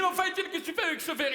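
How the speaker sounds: high, fast, shouted line to a fellow actor; shrill retold yell. Actor retelling how he yelled at Étienne on stage, high and fast. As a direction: yell at Étienne in a frantic rush, laughing. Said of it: "Je lui dis".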